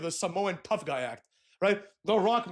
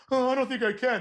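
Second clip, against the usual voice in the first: higher, mock insecure whine; hammed-up self-doubt, pitched up; Jey Uso; 5 semitones higher than usual. Wrestler still doubting himself, mock insecure. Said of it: "insecure Jey Uso run".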